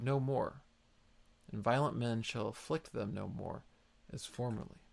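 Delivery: measured, solemn Bible reading; scripture reading. Acted. Preacher reads the promise to David aloud, solemn reading.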